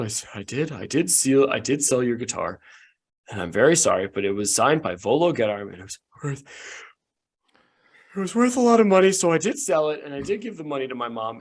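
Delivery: mild mock sob of a kid confessing to Arnold; crying apology. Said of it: "he also starts crying".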